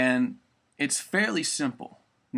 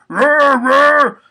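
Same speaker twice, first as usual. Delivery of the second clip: very high, loud squeaky roar; Pee Wee Herman roar; 12 semitones higher, 13 dB louder than usual. Shown as a demonstration. Friend's tip for learning to roar, high squeaky roar. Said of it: "try, like, Pee Wee Herman".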